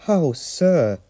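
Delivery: high, pleased little exclamation; understated joyful awe; happy whisper. A narrator's reading. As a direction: say it in bashful delight, only a hint of hush. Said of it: "whispered Percy happily".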